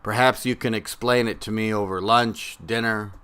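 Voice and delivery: spare spoken-word delivery with long pauses between phrases; poetry reading. Acted. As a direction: let each image stand alone. This poem is, uh, for Mark.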